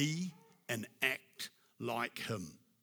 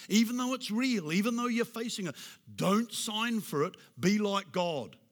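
loud, high, fervent exhortation; full-force preacher call; preaching shout; 6 semitones higher, 4 dB louder than usual. Real, not acted. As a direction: lift your voice and drive it home.

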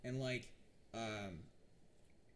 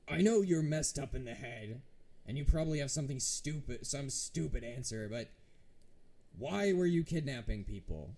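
interrogating sheriff; 6 dB louder than usual. Acted. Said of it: "turns back to the necromancer and goes".

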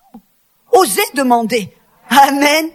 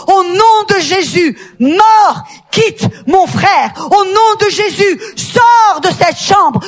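commanding rebuke; 4 semitones higher, slower than usual. Retold or imitated. Preacher reenacting her rebuke of death, commanding and slow. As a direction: order death out in Jesus' name, slow and strong.

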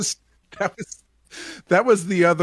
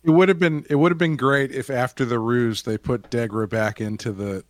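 normal talking voice

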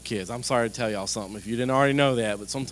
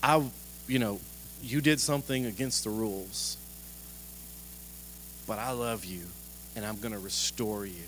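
gentle parent; 2 semitones lower, 5 dB quieter than usual. Retold or imitated. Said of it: "To watch a parent say".

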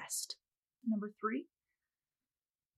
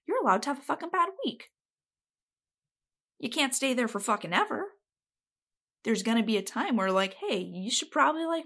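getting feisty; 2 semitones higher than usual. Real, not acted. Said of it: "getting feisty".

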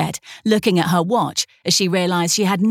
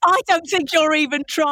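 a hint of a stern teacher, pitched up; 10 semitones higher than usual. A light stern teacher scolding the reader for not trying. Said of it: "You sound like my, every teacher I ever had".

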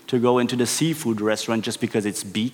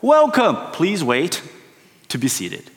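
mock host, cheery then deflating; falsely welcoming host; 3 semitones higher than usual. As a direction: greet warmly, then dash their hopes. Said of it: "And it's like false hope".

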